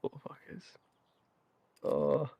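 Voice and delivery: breathy whisper; under the breath. Real, not acted. Surprised while gaming, muttered whisper.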